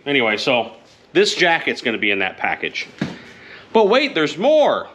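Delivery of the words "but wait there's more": slow, high hammed-up TV salesman; infomercial pitch. Vlogger presenting raffle items, a hammed-up infomercial pitch. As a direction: sell it like a late-night ad.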